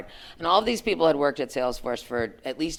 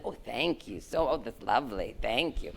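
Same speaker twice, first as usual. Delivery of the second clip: polite thanks; 3 semitones lower, 8 dB quieter than usual. Retold or imitated. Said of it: "my mother would have killed me".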